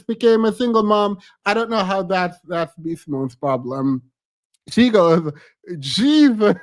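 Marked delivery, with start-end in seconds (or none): 5.8-6.6 imitating B Simone. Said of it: "why did she say Jesus like that".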